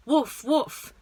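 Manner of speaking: modelled dog bark. Shown as a demonstration. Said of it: "set up full".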